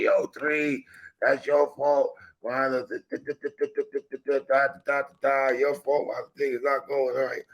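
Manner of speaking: high, whiny mock accusation; mock complaining fan. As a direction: imitate a nagging fan. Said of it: "Getting at me and say".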